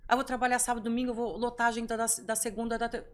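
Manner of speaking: rushed, fast mock overbooking; hurried self-defeating workaholic. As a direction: rattle it off fast like someone punishing themselves. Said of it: "Tem gente que parece que quer se punir".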